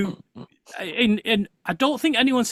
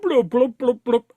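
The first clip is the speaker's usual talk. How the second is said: bubbling noise; 5 semitones higher, 4 dB louder than usual. Retold or imitated. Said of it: "filmed going blub".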